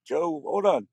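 loud, high whoa whoa; alarmed shout. Retold or imitated. Father stopping the mother, loud and alarmed. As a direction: cut in to stop her. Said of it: "my dad goes".

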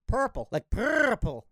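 purple said slowly with a rolled r. Shown as a demonstration. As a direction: roll the r in purple. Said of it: "You roll your R pretty good".

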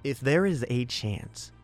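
usual speaking voice

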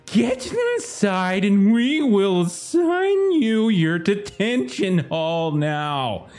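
very slow, high screech, sliding down; screaming automaton schoolmistress. Acted. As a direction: screech each word out long and high. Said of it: "as she screams out".

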